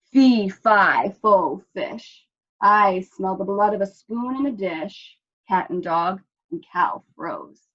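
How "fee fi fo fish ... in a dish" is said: louder giant's voice calling fee fi fo; the giant sniffing out Spoon and Dish, booming. Acted. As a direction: boom it from far off. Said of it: "a voice boomed".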